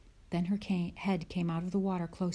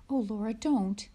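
mild cry; 4 semitones higher, 4 dB louder than usual. Acted. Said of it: "Mary cried".

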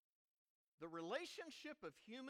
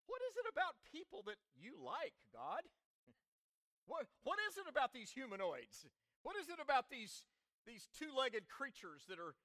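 puzzled questioning of God, higher-pitched; colloquial paraphrase; 4 semitones higher, 3 dB louder than usual. Acted. Preacher paraphrasing the psalm to God, colloquial questioning. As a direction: ask God in everyday, wondering words. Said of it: "colloquial way or a paraphrase".

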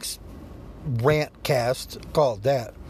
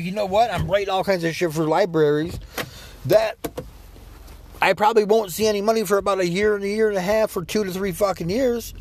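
exasperated rant; 5 semitones higher than usual. Retold or imitated. Ranting reply in imagined chat.

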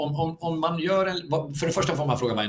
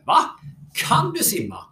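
Kan du simma much higher, amazed; surprised; 9 semitones higher, 4 dB louder than usual. Retold or imitated. Coach amazed that the girl claims she can swim. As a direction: retell the coach's astonished double take. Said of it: "han blev förvånad och säger så här".

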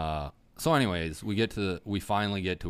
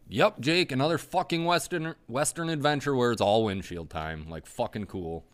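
higher, louder sarcastic griping at Jake; sarcastic road-trip rant; mock furious rant; 5 semitones higher, 5 dB louder than usual. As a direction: vent the wasted morning, half joking. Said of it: "And I'm just furious".

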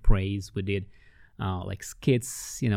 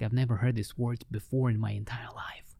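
softer, whispered through tears; a woman overcome, whispering; tearful whisper; 6 dB quieter than usual. Retold or imitated. The crying lady says she never heard these words, whispering. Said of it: "she just started crying".

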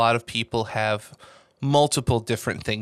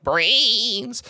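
zombie cry; 10 semitones higher than usual. Retold or imitated. Little zombie biting the Space Marine, hammed-up zombie call. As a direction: play the hungry little zombie.

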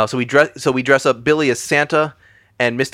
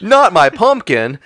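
anguished wail; 6 semitones higher, 5 dB louder, slower than usual. Retold or imitated. Voicing injured Santa actor.

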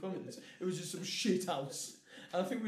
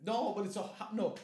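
usual speaking voice

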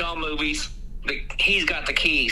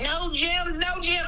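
very high, pleading wail of a name; mock desperate cry; 12 semitones higher, slower than usual. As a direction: ham up a wife's frantic plea. Wife watching husband sucked down.

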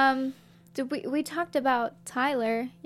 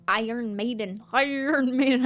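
pirate voice. Pretend. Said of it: "I sound like a pirate now".

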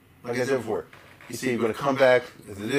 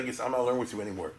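fast, softer indignant retort; 3 semitones lower, 4 dB quieter, faster than usual. Retold or imitated. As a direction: cut him off, offended. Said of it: "David said".

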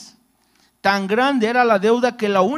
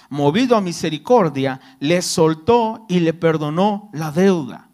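measured, solemn Bible reading; scripture reading. Acted. Pastor reading the parable to his congregation, solemn reading. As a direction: read the parable out to the congregation, steady and grave.

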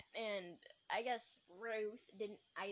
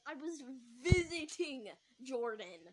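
louder, drawn-out VISITING; emphatic retort; 3 dB louder, slower than usual. Acted. Girl answering about Jordan, emphatic retort. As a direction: lean slowly and hard on visiting.

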